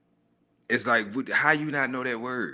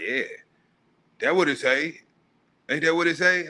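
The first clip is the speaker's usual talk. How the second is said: mock cocky, higher-pitched questioning; proud; 7 semitones higher than usual. Man mimicking readers proud of their mistakes, mock-proud. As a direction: imitate someone proudly sure of a wrong guess. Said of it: "be proud about".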